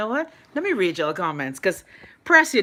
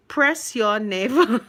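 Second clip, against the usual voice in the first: slow, trying not to laugh; slower than usual. Real, not acted. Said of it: "I can't even say it with a straight face".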